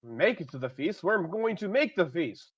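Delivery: high, loud, slowed boast; hearty reply. Acted. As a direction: answer the crowd with bravado. Hero answers crowd loudly.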